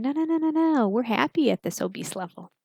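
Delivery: high no no no then a whisper; stubborn body voice. Pretend. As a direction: play the stubborn body refusing. Body voiced refusing to change.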